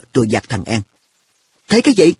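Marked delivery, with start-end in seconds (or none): 1.7-2.1 higher-pitched, puzzled question; bewildered innocence. A narrator's reading. Friend answers the narrator's reproach, bewildered. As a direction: play innocent and baffled. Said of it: "Nó ngơ ngác".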